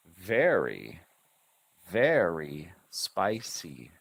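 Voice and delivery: "Here you are, sir" in separate, measured syllables; "very spicy" slowly drawn out syllable by syllable; teacher sounding out every syllable in "Is this dish spicy". Shown as a demonstration. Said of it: "those are the syllable sounds".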